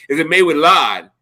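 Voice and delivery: put-on New York accent, dropped R in "lard"; Russell Simmons. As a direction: imitate a New Yorker saying "lard" as "lahd". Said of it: "with a really New York, New York accent".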